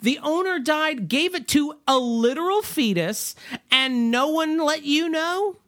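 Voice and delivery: high-pitched, indignant disbelief; incredulous rant, pitched well up; mock incredulity. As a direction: demand answers as if you can't believe it. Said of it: "You wanted more incredulity".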